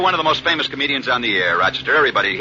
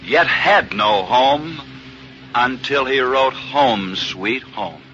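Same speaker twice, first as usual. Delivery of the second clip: slow, solemn radio sign-off; 1950s narrator; 3 semitones lower, much slower than usual. A narrator's reading. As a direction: draw out the closing line with weight. Slow closing narration line.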